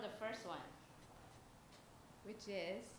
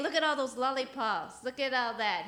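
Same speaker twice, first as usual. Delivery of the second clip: put-on creepy child catcher; 5 semitones higher, 7 dB louder than usual. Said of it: "He's saying".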